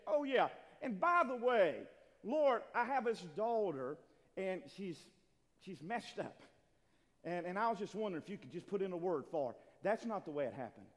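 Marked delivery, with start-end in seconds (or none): 0.1-9.6 mock casual request. Imagined woman casually asking Jesus a favor, mock offhand. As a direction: toss it off as a casual afterthought. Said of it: "she just casually said".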